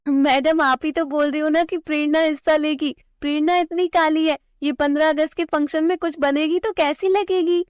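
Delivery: put-on high, smug girl's voice, talking down; mocking schoolgirl. Bully classmate dismissing the dark-skinned girl, smug high voice. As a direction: sneer sweetly at the classmate.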